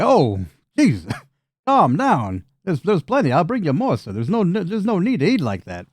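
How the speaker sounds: calm the greedy eater down, half laughing; flustered goblin. Acted.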